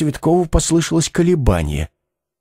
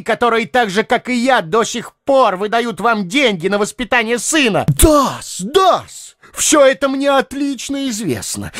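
high accusing shout; angry shout; 9 semitones higher than usual. A narrator's reading. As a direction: hurl the accusation at her. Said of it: "крикнул он ещё громче". (гневный крик)

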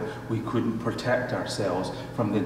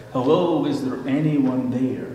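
calling out; 3 semitones higher, 3 dB louder than usual. Retold or imitated. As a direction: call out into the empty canyon. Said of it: "he called out".

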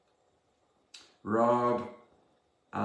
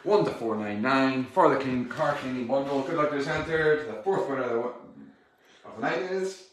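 upbeat raffle draw call; raffle caller. Acted. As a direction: announce the draw to the stream.

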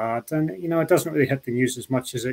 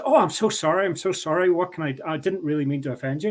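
imitating a flustered apology, pitched higher; mock apologetic; 4 semitones higher than usual. Utah locals apologizing after mistaking his accent, mock apologetic. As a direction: gush sorry like an embarrassed stranger. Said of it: "they would be so apologetic".

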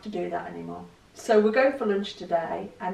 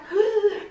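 sharp high gasp with a laugh; laughing excited gasp; 12 semitones higher, 7 dB louder than usual. Real, not acted. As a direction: gasp as if thrilled. Excitement at buffet feeling.

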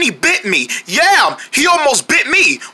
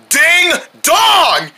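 shouted ding dong; 6 semitones higher than usual. Acted. Angry shouting of doorbell sound.

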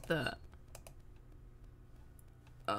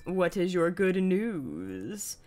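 slow, stretched question with a long last word; drawn-out asking; 3 semitones lower, slower than usual. Pretend. Streamer asking Rosie for good news, slow drawn-out question. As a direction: draw it out in playful anticipation.

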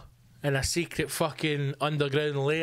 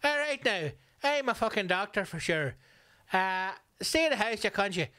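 higher-pitched jeering doctor voice; mocking doctor; 5 semitones higher than usual. Comic mocking a doctor in a viral video, with a high jeering voice. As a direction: lampoon a smug doctor barking orders, pitched up. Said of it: "had one of them going".

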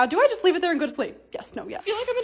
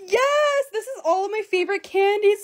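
a real, high shout of joy; thrilled cry; excited shout; 7 semitones higher than usual. Real, not acted. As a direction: yell yes as she finds the candies. Finds her favourite candies.

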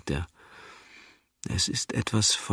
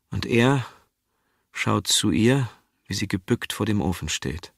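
ordinary delivery, nothing marked

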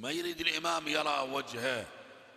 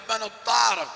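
higher, louder call through the door; 7 semitones higher, 10 dB louder than usual. Retold or imitated. Zainab calling through the door to the knocker, loud. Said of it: "صاحت زينب".

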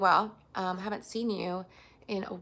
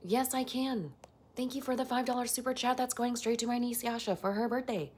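lightly robotic, even-pitched assistant voice; a hint of automated assistant; Alexa voice. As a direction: answer like a voice assistant, in a level monotone. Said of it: "Can you do the Alexa voice?".

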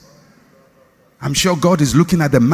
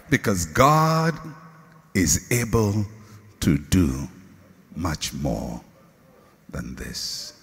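slow, much lower and softer down to a breath; fading to a hush; 9 semitones lower, 6 dB quieter, slower than usual. Acted. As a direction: let each word fall quieter.

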